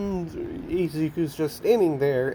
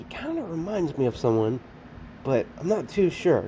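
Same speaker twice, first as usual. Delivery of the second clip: soft, half-whispered, under the breath. Recapping a show scene where she comments on him, retelling her half-whisper. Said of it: "And then she kind of whispers".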